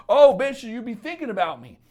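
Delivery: loud, high mocking guy voice; gloating ex. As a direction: crow at her like a smug ex who won. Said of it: "he's like".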